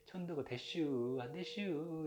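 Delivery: slow, drawn-out Chungcheong imitation; lazy Chungcheong ending, lightly done; Chungcheong dialect. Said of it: "충청도는". (느릿한 충청도 사투리 흉내)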